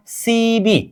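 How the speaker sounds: "सी बी" with a clear b in the second part; syllable pronunciation. Shown as a demonstration. Teacher joins the two sounds for students, "सी बी" pronounced see-bee. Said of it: "ब plus ई क्या होगा".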